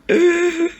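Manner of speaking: sharp, high emotional gasp; high tearful gasp. Real, not acted. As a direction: gasp as the tears hit. Overcome watching the hug.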